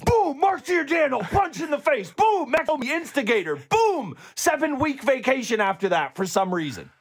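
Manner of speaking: dramatic TV recap booms; punchy high shouted recap hits; previously on recap. Pretend. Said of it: "the reason I did the boom that way is 'cause I feel like that's how it works on shows".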